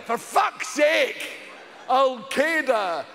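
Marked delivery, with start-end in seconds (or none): 1.9-3.1 "Al Qaeda" drawn out slowly as "ol KAY-da". Shown as a demonstration. Asking how to say it, slow "ol KAY-da". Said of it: "ways are there to say Al Qaeda".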